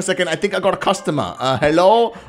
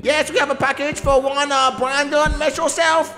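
delivery man voice; 7 semitones higher than usual. Pretend.

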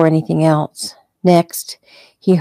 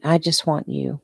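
whispering; 8 dB quieter than usual. A narrator's reading. Tender bedside reunion.

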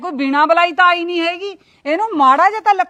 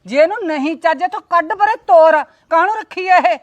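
rising anger; 3 semitones higher, 3 dB louder than usual. Acted. Aunt complains angrily about niece.

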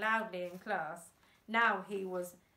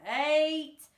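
loud count; 6 semitones higher, 11 dB louder than usual. A narrator's reading. Countdown through loud hailer.

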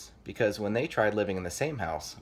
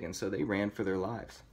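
lively storybook reading; story narration. A narrator's reading. Reader telling kids of pig versus zombies, story narration. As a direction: read it like a picture book.

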